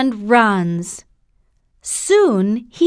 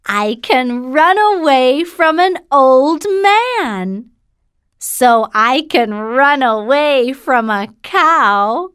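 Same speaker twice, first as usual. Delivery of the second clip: gingerbread man voice; 4 semitones higher than usual. Acted.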